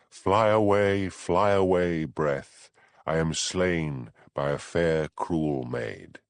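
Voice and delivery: slow, lyrical verse reading; poem recital. A narrator's reading. Reading a Shakespeare song aloud, slow and lyrical. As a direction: let each line linger like a lament.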